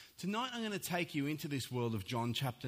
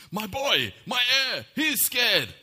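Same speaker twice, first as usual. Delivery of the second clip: loud, high burst of fatherly bravado; mock-heroic alarm; 9 semitones higher, 11 dB louder than usual. Half-asleep dad hearing his son call out, loud mock-heroic alarm. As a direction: proclaim it like a dad springing to the rescue. Acting out dad's bravado on waking.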